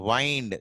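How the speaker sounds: "wind" rhyming with "find"; long-i pronunciation. Shown as a demonstration. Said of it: "pronounced as wind".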